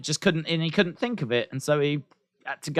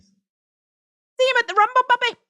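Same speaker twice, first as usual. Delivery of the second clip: put-on old granny Brock; 4 dB louder than usual. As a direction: stretch it out like a frail granny. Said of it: "Brock sounds like an old granny".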